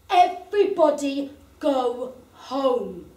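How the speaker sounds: slow, measured order to the crowd; calm, slow command; firm bouncer. Acted. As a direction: lay down the law slowly.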